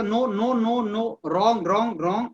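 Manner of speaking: firm, slow interruptions in a debate; cutting in. Shown as a demonstration. Teacher demos cutting in on Rahul in a group discussion, firm and slow. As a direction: cut the speaker off with firm short words. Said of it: "जैसे मैंने आपको कल बताया था".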